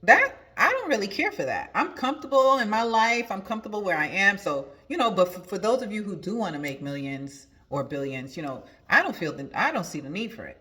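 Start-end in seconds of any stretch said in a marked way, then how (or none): 0.0-4.4 high, dismissive quote. Retold or imitated. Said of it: "And she was like".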